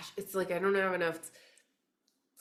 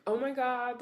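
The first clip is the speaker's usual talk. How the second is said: higher-pitched replay of amazed distraction; retold amazement; 7 semitones higher than usual. Reader explains how distracted she is, retold amazement. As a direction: act out your own distracted gasp of wonder. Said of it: "I am so distracted, like".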